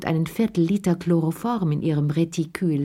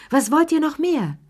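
emphatic; 10 semitones higher, 4 dB louder than usual. A narrator's reading. Soothing the women.

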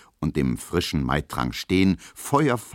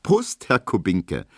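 friendly toast; 3 dB louder, slower than usual. Acted. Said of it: "sagt Emma freundlich".

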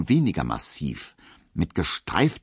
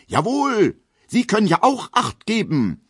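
much higher, louder indignant retort; high, loud indignant cry; manly indignation; 5 dB louder than usual. Acted. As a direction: puff up and call out in outrage. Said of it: "ruft er in männlicher Entrüstung".

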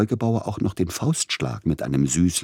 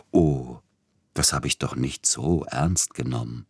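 eerie coquetry; 2 semitones lower than usual. Acted. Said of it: "mit einer schaurigen Koketterie".

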